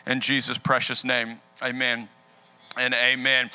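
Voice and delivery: earnest, steady pastor's prayer. Acted. Pastor praying over the congregation, earnest and steady. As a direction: talk to God for the church.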